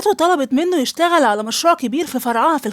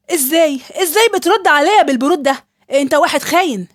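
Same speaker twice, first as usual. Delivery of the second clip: furious accusation; 4 dB louder than usual. Acted. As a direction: shout her betrayal at him. Wife confronts husband's betrayal. (اتهام غاضب بصوت عالي)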